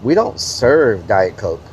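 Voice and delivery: slow, low, snooty waiter; a lightly voiced haughty waiter, slow. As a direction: look down your nose at a customer. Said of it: "the guy got an attitude".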